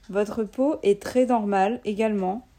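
stiff, bad robot voice. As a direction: talk like a clunky android. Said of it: "avec des voix de robots nuls".

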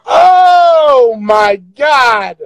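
slow laughing shout. Real, not acted. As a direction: crack up and shout it.

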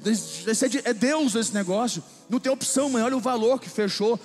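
urging mom with happy excitement; excited. Retold or imitated. Son urging his mother to close the deal, excited. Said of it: "eu fiquei tão empolgado".

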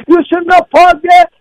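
high, drawn-out mock yell; retold screaming. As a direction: imitate a man yelling, stretching each word. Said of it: "he starts screaming".

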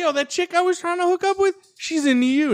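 high-pitched, urgent complaint; agitated phone call. Retold or imitated. Teen phones his buddy about the girl, high and agitated.

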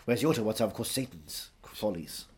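lightly voiced Welsh thespian holding forth; Anthony Hopkins. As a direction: lecture as a mock-grand Welsh actor.

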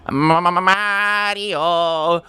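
high, stuttering cartoon call for a brother; high-pitched Italian cartoon stutter. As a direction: stammer the name, then draw it out high. Calling out as game's Luigi.

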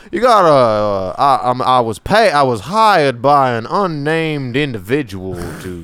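put-on British Southern accent. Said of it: "You're doing, like, a British Southern".

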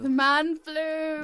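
mock dramatic. Real, not acted. Echoing the man flu.

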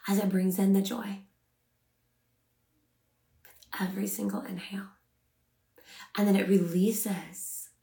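unhurried meditation guide, long pauses between phrases; measured, calming guidance with room to breathe; guided meditation. Acted. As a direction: ease listeners into rest, phrase by phrase.

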